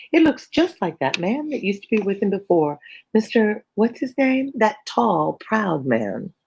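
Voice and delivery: put-on high-pitched, lively girl reading; animated high character voice; excitable Kitty. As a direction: pipe up high, drawing out the name search.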